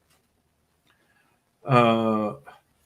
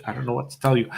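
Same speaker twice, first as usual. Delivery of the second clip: ordinary talk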